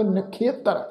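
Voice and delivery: ਨਖੇਤਰ with an i-a glide after kh; careful demonstration of ਨਖੇਤਰ as nakhiatar; khia glide in ਨਖੇਤਰ. Shown as a demonstration. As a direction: say ਨਖੇਤਰ as na-khi-a-tar. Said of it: "ਇਸ ਸ਼ਬਦ ਦਾ ਉਚਾਰਨ ਕਰਾਂਗੇ".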